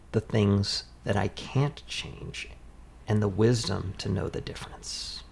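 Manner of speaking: a touch of prayer, slow in places; serenity prayer. Retold or imitated. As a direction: read it like a lightly voiced prayer. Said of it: "There's a saying".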